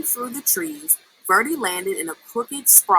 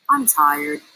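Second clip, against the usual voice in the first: growled; 6 semitones lower than usual. A narrator's reading. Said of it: "Dozer growled".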